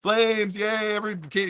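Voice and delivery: high, gleeful mock delight at the flames; mock gleeful cheer. Vlogger mocking his old self, cheering the fire, gleeful. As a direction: cheer the chaos like a kid. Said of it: "As you guys know, I like to just".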